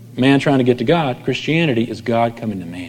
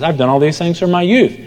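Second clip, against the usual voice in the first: mock rich man; 6 semitones higher than usual. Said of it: "Rich man says".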